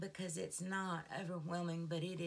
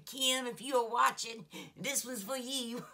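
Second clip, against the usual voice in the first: higher, louder, laughing call-out; excited shout-out; 6 semitones higher, 6 dB louder than usual. Real, not acted. Greeting Kim watching the channel, giddy shout-out. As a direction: call out to her happily.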